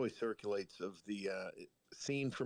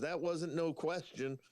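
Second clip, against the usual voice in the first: higher, slow and final, a flat refusal; mock old waitress shutting him down; stern old waitress; 7 semitones higher than usual. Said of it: "She goes".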